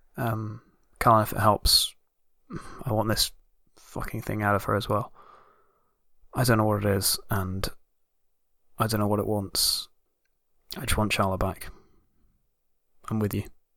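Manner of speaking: quiet, hushed voice. In a role-play, a character speaks beside an unconscious companion, quietly.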